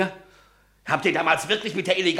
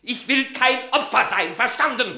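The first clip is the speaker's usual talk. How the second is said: defiant. Acted. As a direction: stand your ground against them. Paul defiant in quarrel. (trotzig und laut)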